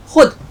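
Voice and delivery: खुद said as khud, the v silent; खुद with no trace of vao. Shown as a demonstration. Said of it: "बीच में वाव आता है". (खुद, वाव खामोश)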